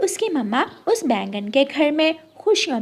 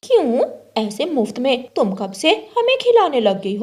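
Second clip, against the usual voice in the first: louder, mocking sneer; snide retort; 3 dB louder than usual. The jealous crow mocking Rano's invitation, snide. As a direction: scoff at the free meal.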